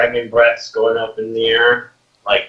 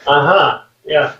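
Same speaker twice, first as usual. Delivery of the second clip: glaring refusal; 5 semitones higher than usual. Acted.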